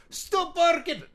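loud high yell at the dogs; comic wrestler yelling at his dogs mid-interview; shouting at dogs. Acted. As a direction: bark the order at barking dogs.

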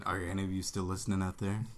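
low, soft late-night DJ voice; radio DJ voice. Pretend. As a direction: purr it like a seventies radio DJ. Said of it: "big sexy radio D J from the seventies".

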